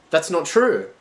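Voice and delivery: high, loud tearful denial; sobbing. Acted. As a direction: deny it through tears. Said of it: "she sobbed".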